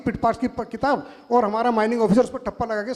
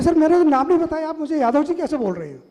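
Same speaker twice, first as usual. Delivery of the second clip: mock surprise; 5 semitones higher than usual. Caller asks how the official knew him, acted surprise. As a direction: act out a caller taken aback. Caller baffled at being recognised by voice.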